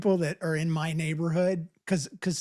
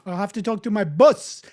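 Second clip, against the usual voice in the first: imitated African accent, BOSS like "bus"; louder mock African accent; 5 dB louder than usual. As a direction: quote the teacher in an African accent. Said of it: "she had an African accent".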